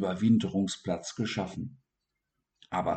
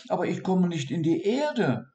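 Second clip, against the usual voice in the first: high voice, Erde sinking sadly; high pleading dormouse; worried dormouse; 9 semitones higher than usual. Acted. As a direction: plead that he cannot dig. Dormouse explains his problem.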